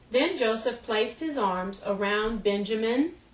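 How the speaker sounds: slow, careful read-aloud of the sentence; slow first reading. Shown as a demonstration. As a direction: read it slowly and deliberately for the students. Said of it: "Let's read the sentence again".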